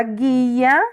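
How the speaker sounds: "guia" with hard g, U left silent. Shown as a demonstration. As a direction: say "guia" as ghee-a. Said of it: "a gente não pronuncia o U". ("guia" sem pronunciar o U)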